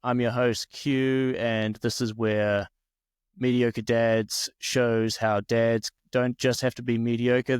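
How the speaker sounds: hammed-up host intro read; mock podcast intro. Shown as a demonstration. Guest tries the podcast intro, announcer style. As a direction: sell it like a show opener. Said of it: "can I try it".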